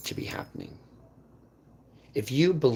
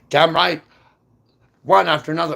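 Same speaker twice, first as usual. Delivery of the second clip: mock gleeful shout; 7 semitones higher, 9 dB louder, faster than usual. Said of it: "they're like".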